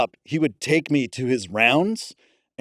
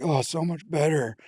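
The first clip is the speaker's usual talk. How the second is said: relieved patient; 5 dB quieter than usual. Retold or imitated. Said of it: "the guy was like".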